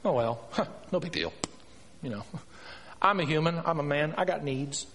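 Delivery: casual excuse-making with a small laugh; mock dismissive politician. Preacher imitating presidents excusing themselves, mock dismissive. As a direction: shrug it off like it's nothing. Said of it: "like our presidents do".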